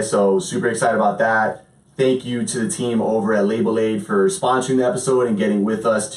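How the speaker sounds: upbeat sponsor read for the podcast. Acted. Host reads the sponsor spot to listeners, upbeat ad read. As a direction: sell the sponsor with friendly energy.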